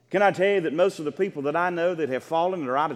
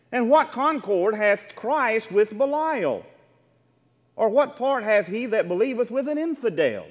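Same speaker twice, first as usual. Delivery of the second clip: scripture reading; 4 semitones higher than usual. Acted. Reads scripture aloud to congregation.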